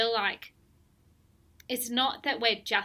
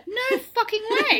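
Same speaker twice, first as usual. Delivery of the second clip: emphatic refusal; 14 semitones higher, 9 dB louder than usual. Retold or imitated. Voicing the day after childbirth.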